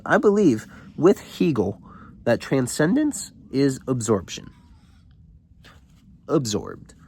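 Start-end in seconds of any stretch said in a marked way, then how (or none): 0.1-4.5 high-pitched mock-grand pronouncement; popping off. Student flaunting philosophy to the adults, mock intense. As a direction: proclaim it like an overwrought intellectual. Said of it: "he's just popping off on them".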